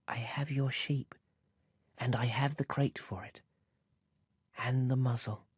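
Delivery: soft sad whisper, smiling; sad smile. A narrator's reading. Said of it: "And he smiled sadly".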